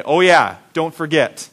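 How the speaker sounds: slow, low and deliberate, a dad's firm caution; slow fatherly warning. Retold or imitated. Father warning his boys at the rest stop, slow and earnest. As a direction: draw it out like a father leaning in. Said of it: "look at us close in the eyes and say".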